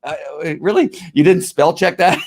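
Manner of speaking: incredulous mock question; mocking disbelief. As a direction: scoff at the misspelling. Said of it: "and you go".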